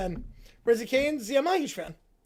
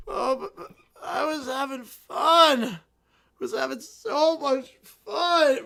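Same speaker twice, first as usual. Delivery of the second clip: put-on teary drunken whine; mock drunken whimper. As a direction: whimper like a tipsy child. Princess whines about fun.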